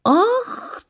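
startled gasp. A narrator's reading. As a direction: yelp as if pinched. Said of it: "ахнула стрепуха".

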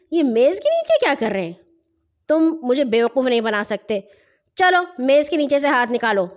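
mounting, mildly exasperated scolding; stern interrogation. Acted. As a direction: press the children until they obey. Brother interrogates and scolds the children. (جھنجھلا کر ڈانٹتے ہوئے)

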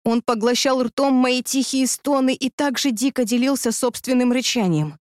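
plain reading voice

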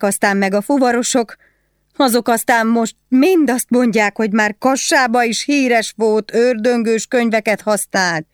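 high-pitched, agitated telling of accusations; gossiping woman prisoner. Acted. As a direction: pour out the scandal in a high voice.

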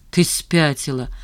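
plain reading voice

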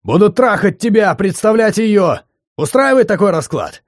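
high, loud, cruel taunt; bitter furious yell. Acted. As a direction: throw it in her face. Drunk man raging at ex.

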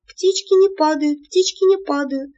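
high, loud panicked repeating; terrified shouting. A narrator's reading. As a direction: chant it in terror. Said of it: "кричала я". (в панике, высоко и громко)

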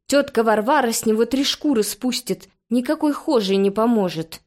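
usual speaking voice

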